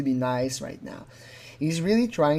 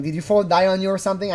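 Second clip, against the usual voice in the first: mock blaming question; 4 semitones higher, faster than usual. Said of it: "I'm guessing it's sort of the patois".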